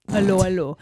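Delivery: hint of a comic French accent; French-accented comedy catchphrase; Officer Crabtree. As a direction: lightly mimic a sitcom Frenchman's accent. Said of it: "like Officer Crabtree from Hello, Hello".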